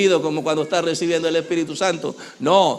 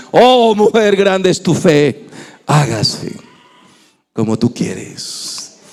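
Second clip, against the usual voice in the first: voice of Jesus; slower than usual. Acted. Jesus answers the woman.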